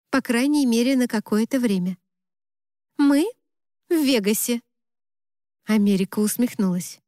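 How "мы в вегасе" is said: raised pitch, hesitant confession; higher-pitched nervous voice. A narrator's reading. Bride reluctantly breaking news to her best friend, nervous higher voice. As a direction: admit it in a raised voice. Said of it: "Мой голос стал на октаву выше".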